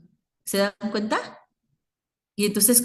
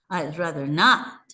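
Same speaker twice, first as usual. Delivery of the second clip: "not" lifted in pitch; stressed "not" with a rising tune; raised intonation on NOT; 4 semitones lower than usual. Shown as a demonstration. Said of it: "ahí elevo el, la entonación".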